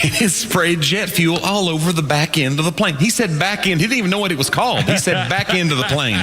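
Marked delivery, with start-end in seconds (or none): 0.0-3.0 slow Southern pilot impression; thick Southern accent. Comic as pilot explaining fuel spill, thick Southern accent. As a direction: imitate an unhurried Southern captain. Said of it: "he had the thickest Southern accent".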